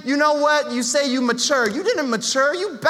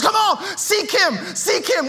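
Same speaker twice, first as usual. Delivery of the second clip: eager altar urging; 3 semitones higher, slower than usual. Retold or imitated.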